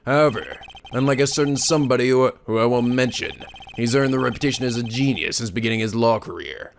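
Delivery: low, measured mentor voice; lightly voiced older colleague, low pitch; smooth mentor. Senior lawyer sizing up a rival's reputation, low mentor voice. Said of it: "I'm giving him the same voice".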